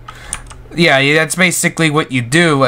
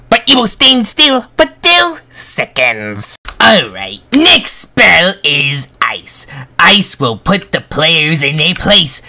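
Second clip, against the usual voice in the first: witch voice. Acted. Held witch voice.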